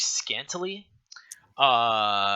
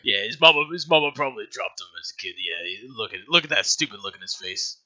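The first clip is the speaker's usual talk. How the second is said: mocking thug; 3 semitones lower than usual. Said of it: "And he's like".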